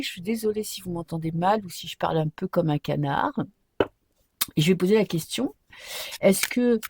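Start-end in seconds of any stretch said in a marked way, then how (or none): 0.0-3.3 blocked nose. Real, not acted. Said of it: "j'ai le nez bouché".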